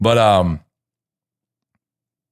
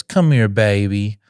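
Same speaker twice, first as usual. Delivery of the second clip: put-on slow, drawn-out child's echo; lightly voiced child repeating a phrase; imitating young son; 3 semitones higher, 3 dB louder, slower than usual. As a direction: echo it back like a little boy, stretched out. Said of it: "And he goes".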